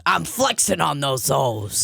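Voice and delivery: slow, drawn-out dad catchphrase; dad imitation. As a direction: lightly put on dad's voice, stretching the words. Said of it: "sounds a little more like this".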